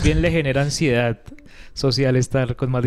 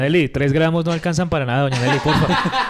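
mock complaint. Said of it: "dígale que doña Nelly no le gusta".

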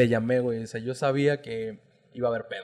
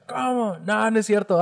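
mom's shock, higher, lightly acted; mock shocked mom; 8 semitones higher, slower than usual. Mom hearing of the tattoo, mildly mock shocked. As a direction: imitate mom's disbelief, higher. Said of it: "retold mom reaction".

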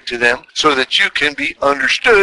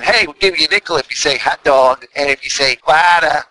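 lightly imitated Boston kids' accent. Boston kids taunting the New York newcomers, light Boston accent. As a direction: say it with a hint of Boston. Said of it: "all the Boston kids came up".

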